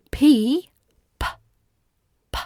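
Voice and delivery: "P" popped with a small puff of air. Shown as a demonstration. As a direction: aspirate each "P" crisply. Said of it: "is a small puff of air".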